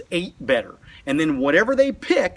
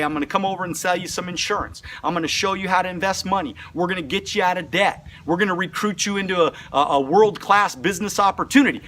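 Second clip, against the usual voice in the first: wrong sales pitch; faster than usual. Shown as a demonstration. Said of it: "Most people make the biggest mistake".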